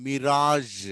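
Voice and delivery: మిరాజ్ stretched as "mi-raazh"; teacher demonstrating zh in మిరాజ్; model zh ending. Shown as a demonstration. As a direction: end మిరాజ్ on a long buzzed zh. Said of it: "అదేవిధంగా".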